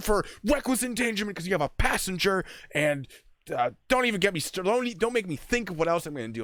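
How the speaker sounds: very high, furious screaming tirade. Retelling threatening to arrest a guy: retelling yelling at a guy. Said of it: "I'm just yelling at this dude".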